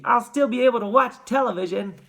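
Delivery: high, squeaky little voice; defiant miniature child's squeak; tiny squeak. A narrator's reading. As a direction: pipe it up like a tiny boy. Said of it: "squeaked the tiny voice".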